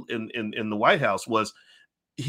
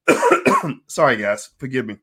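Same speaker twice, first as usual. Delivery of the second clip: coughing, still choking; choking on a drink; 7 dB louder, slower than usual. Real, not acted. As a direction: apologize through a cough. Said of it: "I'm choking".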